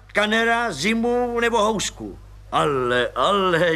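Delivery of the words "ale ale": mild surprise. A narrator's reading. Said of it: "divil se plukovník".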